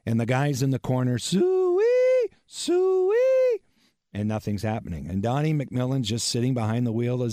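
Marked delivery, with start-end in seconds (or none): 1.2-3.6 long high piercing hog call. Retold or imitated. Guys in the corner call the hogs, long and high. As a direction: wail it like calling pigs home. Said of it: "pig call".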